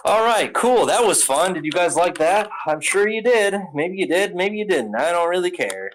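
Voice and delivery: playful hyped talk to viewers; hyped wrap-up. Real, not acted. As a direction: sell the segment with teasing energy. Wrapping up, hyped.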